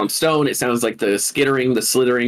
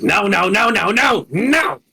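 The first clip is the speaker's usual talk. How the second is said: panicked chef; 8 semitones higher than usual. Acted. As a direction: beg for your life as the pitch climbs higher. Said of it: "you hear him going".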